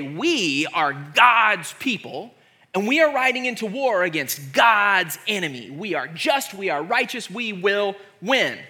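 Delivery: mildly pompous holy-war speech; spiritually superior. Acted. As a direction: declare it like God's chosen army. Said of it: "view themselves as being spiritually superior".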